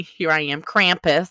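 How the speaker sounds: put-on playful, lightly done German accent; mock German accent. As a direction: announce yourself with a hint of German accent. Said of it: "like, a German accent".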